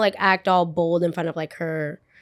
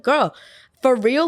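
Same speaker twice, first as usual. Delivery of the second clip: retold disbelief; 4 semitones higher, 4 dB louder than usual. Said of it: "I was like".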